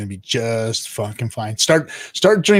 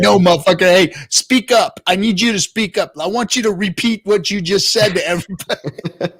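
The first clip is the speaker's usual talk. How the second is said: 1 imitating moderator; 6 semitones higher than usual. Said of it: "He's like".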